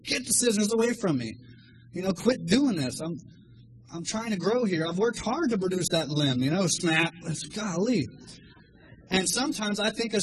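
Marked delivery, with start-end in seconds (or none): 0.0-6.4 complaining plant. Retold or imitated. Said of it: "picture the plant if he could talk".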